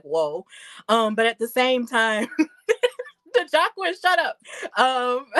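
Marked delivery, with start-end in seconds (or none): 2.3-5.3 higher, fast laughing tease. Real, not acted. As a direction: laugh while telling a friend to hush. Teasing friend while laughing.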